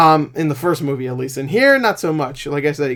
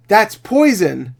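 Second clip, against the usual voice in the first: slow, higher hammy line reading; bad voice actor; 4 semitones higher, much slower than usual. Character talks to another character, hammy bad acting. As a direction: drag it out like bad dubbing. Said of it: "this voice actor is giving me cancer".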